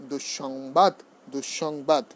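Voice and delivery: "দুঃসংবাদ" as dush-shongbad; doubled s. Shown as a demonstration. Teacher reviewing visarga doubling, "দুঃসংবাদ" with long sibilant. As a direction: hold the double sh inside "দুঃসংবাদ". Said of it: "দ্বিত্ব হবে".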